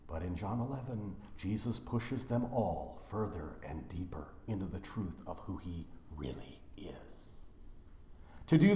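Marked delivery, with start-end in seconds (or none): 0.1-7.3 hushed whisper, much softer and lower. Acted. Preacher hushing the mourners at Butch's funeral, whispering. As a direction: drop to a near whisper.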